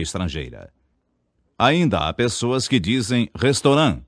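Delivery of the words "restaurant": restaurant said lightly in French, nasal final vowel; Portuguese teacher mimics the French way, lightly voiced; French pronunciation. Shown as a demonstration. Teacher shows the wrong French way: restaurant. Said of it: "pronunciando-a como palavra francesa".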